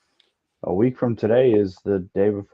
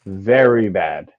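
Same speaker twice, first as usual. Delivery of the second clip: laughing; 5 dB louder, slower than usual. Real, not acted. Laughing admission show is bad.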